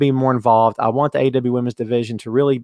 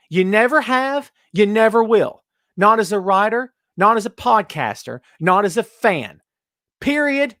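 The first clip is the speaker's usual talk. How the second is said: ranting; 5 semitones higher than usual. Real, not acted. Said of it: "End of rant".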